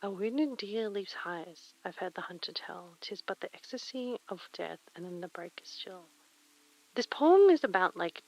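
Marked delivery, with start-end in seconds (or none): 0.0-6.1 soft breathy ASMR reading. Acted. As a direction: breathe the poem close to the mic. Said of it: "I'm definitely doing an A S M R voice".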